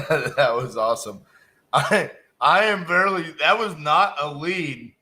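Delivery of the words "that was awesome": saying it through a laugh; amused, words riding a laugh. Real, not acted. After the call, telling the audience while laughing.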